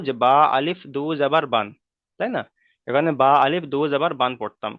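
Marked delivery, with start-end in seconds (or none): 0.2-1.7 "বা আলিফ দু জাবার বান" with alif spelled out; alif named aloud. Shown as a demonstration. Teacher showing students the reading not used here, alif named aloud. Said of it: "আমরা মানে উচ্চারণ করবো না". 3.2-4.3 "বা আলিফ দু জাবার বান" with alif pronounced; alif named aloud. Shown as a demonstration. Teacher recalling the former reading for students, alif named aloud. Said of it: "কিন্তু এখানে".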